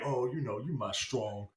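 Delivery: mock stilted dialogue. Husband praising his wife in a bad movie, mock stilted. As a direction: lightly parody clunky scripted praise. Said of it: "No one in this movie speaks like a normal person".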